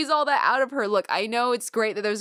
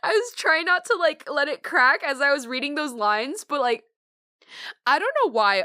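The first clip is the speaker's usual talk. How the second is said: teary; 5 semitones higher, 4 dB louder than usual. Real, not acted. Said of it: "I have actual tears in my eyes right now".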